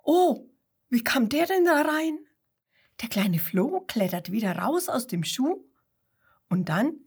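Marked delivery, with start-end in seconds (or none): 0.0-2.2 startled cry. A narrator's reading. Kangaroo startled by the stone in its shoe. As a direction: gasp it out in surprise. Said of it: "ruft erschrocken".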